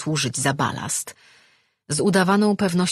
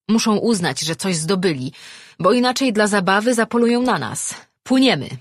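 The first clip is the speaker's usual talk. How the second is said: high, raised captain's voice; urgent command; 6 semitones higher, 5 dB louder than usual. A narrator's reading. Captain ordering crew to abandon loot and swim, urgent.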